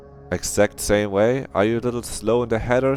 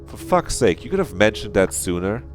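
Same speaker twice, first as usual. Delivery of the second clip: higher, mildly exasperated complaint; annoyed; 4 semitones higher, 4 dB louder than usual. Acted. Game character scolding the others for late news, annoyed. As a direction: chide them with raised-pitch annoyance. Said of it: "gives us an annoyed look".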